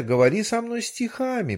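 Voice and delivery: fish demand. Acted.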